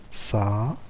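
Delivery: "saxophone" with long gaps: sa, xo, phone; syllable by syllable. Shown as a demonstration. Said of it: "trois syllabes".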